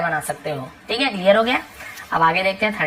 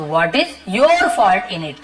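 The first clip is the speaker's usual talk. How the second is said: each word said slowly and clearly for learners; slow model sentence; 2 semitones lower, much slower than usual. Shown as a demonstration. Teacher slowly models the sentence for Hindi learners. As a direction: spell it out slowly so students can copy. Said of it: "teacher models the sentence slowly".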